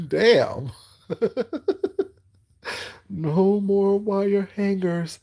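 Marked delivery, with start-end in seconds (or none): 3.1-5.2 slow and higher, mock drawn-out; slow, high, theatrical mock fury; hammed-up Mommie Dearest. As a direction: stretch it like a campy diva. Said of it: "Ooh, not".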